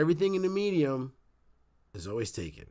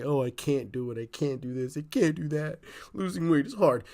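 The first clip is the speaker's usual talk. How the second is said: lightly imitated excuse-maker, rising in pitch toward the end; mock can't-do complaint; mock complainer. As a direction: mimic people listing their excuses, building slightly. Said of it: "people say".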